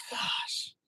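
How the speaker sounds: hushed, slow, soft awe; awed whisper. Retold or imitated. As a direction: breathe it in wonder. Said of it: "You're like".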